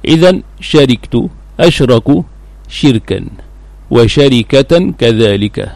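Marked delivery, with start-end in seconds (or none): 3.9-4.9 وشركة as wa-sha-ri-ka-tan; fath on shin, kasr on ra. Shown as a demonstration. Teacher vowelling the verbal noun, وشركة said wa-sharikatan. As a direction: say وشركة with short a after shin, short i under ra. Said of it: "بفتح الشين وكسر الراء".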